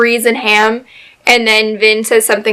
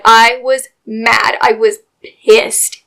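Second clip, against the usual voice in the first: slow indignant; much slower than usual. Real, not acted. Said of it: "I didn't cry when he died".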